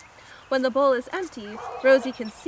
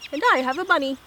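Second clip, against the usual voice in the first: louder, goofy dog announcement; big dog character; 5 semitones higher, 5 dB louder, much faster than usual. Acted. Very big dog Maurice speaking.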